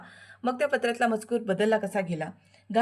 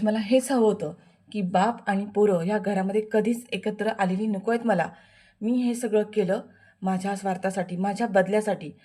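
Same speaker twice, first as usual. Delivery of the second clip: louder, defiant confession; gloating villain; 3 dB louder than usual. Acted. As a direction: boast of the revenge. Villain boasts revenge. (सूडाची कबुली देणारा खलनायक विद्याधर, मोठ्याने)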